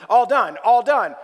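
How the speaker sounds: repeated flat robotic phrase; droning device voice, twice. Retold or imitated. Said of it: "say it in a robotic voice".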